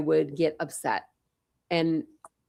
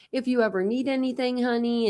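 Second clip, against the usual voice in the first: higher, lightly voiced sweet elderly offer; kindly old lady; 5 semitones higher than usual. Retirees offering help to injured girl, sweet higher voice. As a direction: offer help like a doting grandma. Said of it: "they were just like".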